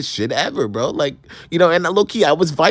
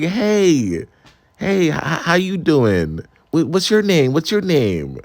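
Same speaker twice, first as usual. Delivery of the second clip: sassy guy; 2 semitones higher, slower than usual. Retold or imitated. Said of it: "this man was a little bit sassy".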